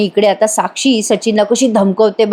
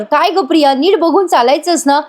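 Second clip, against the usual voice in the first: mock scolding shout; 6 semitones higher than usual. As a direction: snap at her in a lightly acted scold. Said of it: "Sayali ओरडते तिच्यावर".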